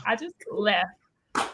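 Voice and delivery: slow, soft trailing repeat of I just left; quiet. Real, not acted. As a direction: let I just left fade away slowly.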